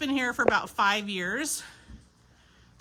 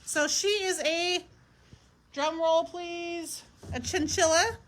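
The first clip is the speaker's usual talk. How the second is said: suspenseful reveal; 7 semitones higher than usual. Acted.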